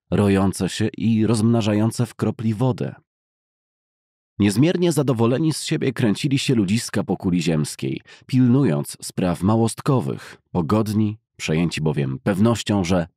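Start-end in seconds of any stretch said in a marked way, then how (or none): none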